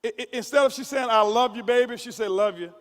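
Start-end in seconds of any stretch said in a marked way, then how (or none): 1.1-2.0 loving send-off. Retold or imitated. Husband imitates wife's loving goodbye at the door, mildly warm. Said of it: "the tone of her voice as she says". 2.3-2.7 "Love you" clipped short and dropping low; curt send-off. Retold or imitated. Husband imitates wife's careless goodbye, mildly curt. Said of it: "if she pronounces it wrong".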